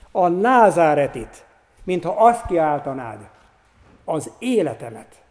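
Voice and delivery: a passage read with feeling from the pulpit; preacher reading a story to the congregation; dramatic reading. A narrator's reading. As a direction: read it like a preacher bringing a scene to life. Reads Karinthy passage aloud.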